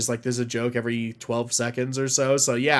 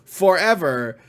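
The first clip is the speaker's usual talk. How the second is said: smug mock gloating.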